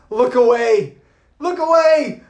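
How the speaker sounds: loud urgent warning; coach's warning. Retold or imitated. Coach warning the other jumpers, loud and urgent. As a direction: tell them firmly not to watch. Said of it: "the coach goes".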